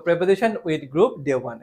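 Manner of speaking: slow, word-by-word dictation pace. Shown as a demonstration. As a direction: spell it out slowly for students to write. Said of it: "লিখো". (ধীরে ধীরে শ্রুতিলিখন)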